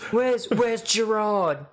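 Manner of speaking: slow, shouted Scouse "Where's Gerrard"; hammy Liverpool football shout; mock Scouse. Showing the only Scouse he can do, shouting. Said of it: "That's the only Scouse I can do".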